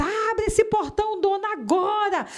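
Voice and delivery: high, slow shouted order from the gate; police shouting. Retold or imitated. Policeman shouting at the homeowner to open the gate. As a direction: bellow it like a cop at the gate.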